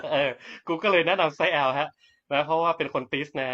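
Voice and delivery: laughing while talking. Real, not acted. Laughing at his own joke.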